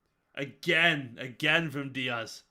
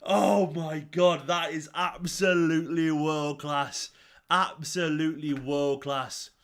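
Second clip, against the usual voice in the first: awestruck; 4 dB louder, slower than usual. Real, not acted. Awed reaction to goal.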